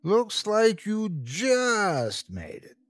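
drawn-out playful carnival worker; grinning ticket man. A narrator's reading. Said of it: "said the man with a grin".

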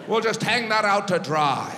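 lightly put-on Donegal Irish voice; a touch of Irish lilt; Irish accent. Donegal locals dismiss using the dryer, light Irish accent. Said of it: "They're like".

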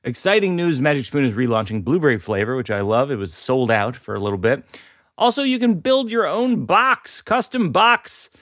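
sponsor read with lilting list intonation; podcast ad read. Real, not acted. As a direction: read the ad copy like a podcast host, lifting each item. Host reads sponsor ad.

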